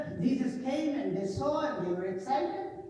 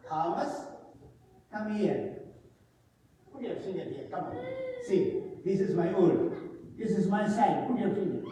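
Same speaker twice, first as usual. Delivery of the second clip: gentle invitation; 2 semitones lower than usual. Acted. Jesus gently inviting Thomas.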